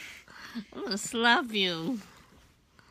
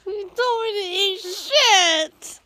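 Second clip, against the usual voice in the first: laughing; 6 semitones higher, 8 dB louder than usual. Real, not acted. Play fight, partner laughing.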